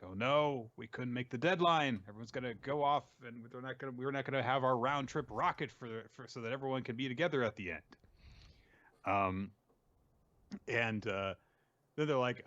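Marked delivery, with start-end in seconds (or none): 0.0-7.8 a touch higher, mildly fretful; mild mock distress of a worried character; Suika upset. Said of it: "is upset because she's like".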